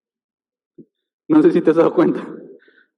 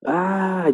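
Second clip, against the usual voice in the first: retold wail; 7 semitones higher than usual. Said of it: "se empieza a escuchar".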